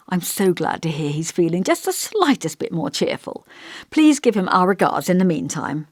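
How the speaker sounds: lightly voiced elderly vicar, musing and gentle; thoughtful old vicar.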